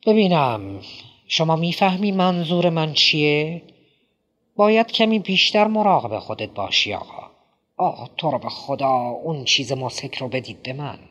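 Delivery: a lightly voiced, fussy, rambling host; a hint of a nervous, chatty Quilty; Quilty's voice. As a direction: play the drugged playwright, talking on and on.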